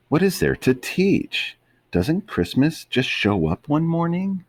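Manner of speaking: high puzzled dog voice; Tramp voice. Acted. Tramp questioning Lady about Christmas, high puzzled voice. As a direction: ask it high and baffled.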